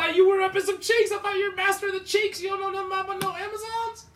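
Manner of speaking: high, loud laughing yell; shouting. Real, not acted. Mocking friend, shouting loudly.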